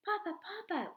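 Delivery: high, eager call to father. A narrator's reading. Children calling to their father coming home, high and eager. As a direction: call out to Papa as you run to him. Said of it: "we called, running toward him".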